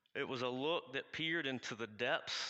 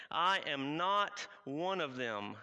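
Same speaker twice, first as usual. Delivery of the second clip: flight-mode denial; 3 semitones higher, 5 dB louder, slower than usual. Acted. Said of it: "it's total flight mode".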